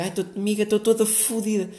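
mock drunk girl yelling to her friend; loud drunk girl. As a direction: imitate a girl loudly bragging she's wasted. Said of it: "começam a falar alto e, tipo, a berrar".

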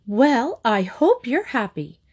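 mildly wrought-up reproach; angry. A narrator's reading. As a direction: accuse with a touch of anger. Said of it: "she said angrily".

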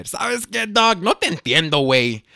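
high, loud goofy Cholo slang; derpy Cholo voice. Retold or imitated. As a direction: blurt it like an over-the-top Cholo. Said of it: "in the most Cholo, derpy voice".

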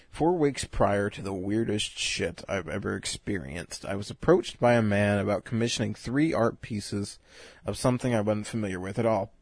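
talking between sips of beer; drinking beer. Real, not acted. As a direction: speak as if sipping a beer. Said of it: "I'm drinking beer".

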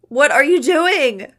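high, very loud, drawn-out wail; terrified wail. A narrator's reading. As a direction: cry out in panic, stretching the words. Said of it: "Iggy wailed in a voice I'd never heard".

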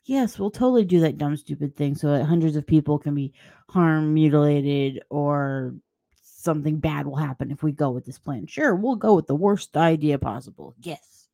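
mock-agreeable sarcasm; sarcastic response. Answering someone's dumb question with mock agreement, sarcastic. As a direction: play along with a terrible plan, sarcastically. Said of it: "just giving a sarcastic response of".

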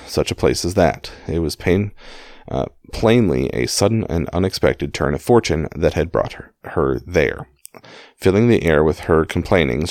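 measured audiobook-style reading; story narration. A narrator's reading. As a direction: read the memoir aloud in clear phrases. Reads a book aloud.

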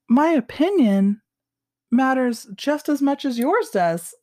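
heated. Retold or imitated. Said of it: "Heated, I'm sure".

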